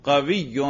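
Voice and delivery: قوی said as "qawiyyun"; nominative ending. Shown as a demonstration. Teacher echoing pupil before asking for nasb, nominative ending. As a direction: end قوی in "-un" over a doubled y. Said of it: "نصب پہ تلفظ کرو".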